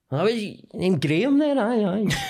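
high, absent-minded mumble; zoned-out distracted voice. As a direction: play someone not listening at all. Zoned-out host mimicked.

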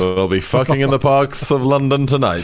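mock wartime speech; hammed-up rousing oratory; Churchill. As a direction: declaim it to the nation like a statesman. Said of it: "an odd Churchillian response".

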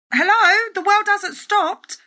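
high, slow sarcastic hello. Real, not acted. Vlogger to critics, sarcastic wake-up call. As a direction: drag out a pointed wake-up call.

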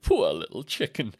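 slow, lightly voiced pitying simpleton; Lenny from Mice and Men. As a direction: draw out the pity, a hint of character. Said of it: "You are like Lenny from Mice and Men".

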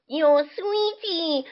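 slow, drawn-out catcall; lightly voiced creepy older man; leering man on the street, stretched slowly. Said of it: "grown men were coming up to me".

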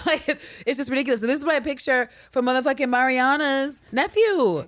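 usual speaking voice

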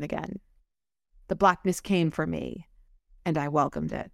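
subdued first-person narration; story narration. A narrator's reading. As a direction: read the passage aloud with gravity. Reads book quote aloud.

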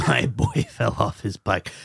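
low, slow dramatic lament; mock-tragic father. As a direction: drag it out like a heartbroken dad. Echoes the father parody.

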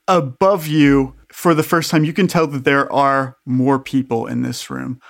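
measured game master narration; scene-setting narration. A narrator's reading. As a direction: lay out the scene deliberately.

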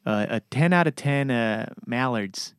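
light Minnesota accent rating movie; lightly done Minnesota accent. Shown as a demonstration. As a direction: Minnesota accent, flat vowels. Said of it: "Minnesota accent".

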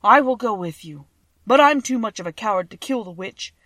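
volunteer loudly as a cowardly lion. A narrator's reading. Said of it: "said the lion".

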